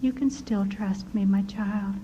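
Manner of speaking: soft, tender, almost whispered; sweetly. Retold or imitated. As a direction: reassure her gently, soft and close. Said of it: "And so sweetly he said".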